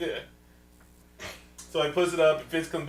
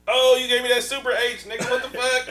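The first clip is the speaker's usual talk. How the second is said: higher, louder hammed-up panic yelling; mock freak-out; 10 semitones higher, 9 dB louder than usual. Retelling the movie, yelling higher and louder in mock panic. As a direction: play a soldier losing it after the serum shot. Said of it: "he just starts flipping out".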